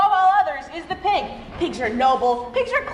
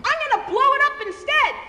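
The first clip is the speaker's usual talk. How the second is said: wolf; 10 semitones higher, faster than usual. Acted. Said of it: "wolf said".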